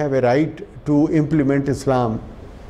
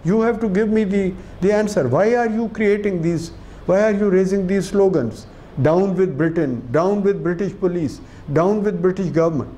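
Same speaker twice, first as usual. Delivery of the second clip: imitating a defiant girl; 4 semitones higher than usual. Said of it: "And she says".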